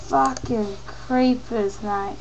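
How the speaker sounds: muttered, broad Australian cursing; Australian accent. Shown as a demonstration. Australian cursing the creepers, broad accent. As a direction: grumble softly like an Australian. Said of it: "that's what we frickin' sound like".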